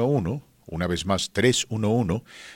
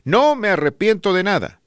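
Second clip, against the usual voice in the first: quoting the suitor; 11 semitones higher, 5 dB louder than usual. Retold or imitated. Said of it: "el galán dice".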